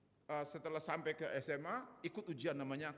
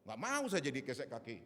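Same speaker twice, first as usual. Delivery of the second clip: louder, mildly indignant protest; rebellious refusal; 5 dB louder than usual. Retold or imitated. Young man refusing to be a doormat, rebellious. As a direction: push back against the demand, voice raised. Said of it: "Wah, berontak saya".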